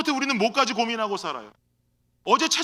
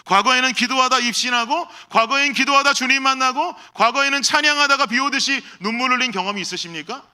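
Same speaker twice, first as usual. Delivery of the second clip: louder, rising preacher fervor; building sermon cry; 4 dB louder than usual. Acted. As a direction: preach it with growing fire. Preaching at full force. (점점 뜨거워지는 설교)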